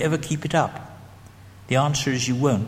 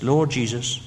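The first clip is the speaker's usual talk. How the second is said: prayer read; 3 semitones higher, slower than usual. Shown as a demonstration. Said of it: "The prayer is this".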